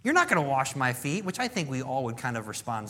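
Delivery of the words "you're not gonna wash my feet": shocked high squeak on no way; disbelieving protest, pitch jumps high; incredulous Peter. Retold or imitated. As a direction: Peter aghast at Jesus washing his feet. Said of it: "Peter's like".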